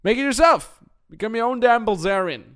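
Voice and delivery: loud, high push on yourself; rousing call to action; emphatic urging. Real, not acted. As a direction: fire the listener up. Urging listener to act.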